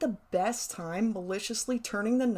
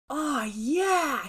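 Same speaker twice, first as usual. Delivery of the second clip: higher, eager exclamation; gleeful kid's cheer, pitched up; great enthusiasm; 6 semitones higher, 4 dB louder than usual. Retold or imitated. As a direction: burst out like a thrilled boy. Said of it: "said with great enthusiasm".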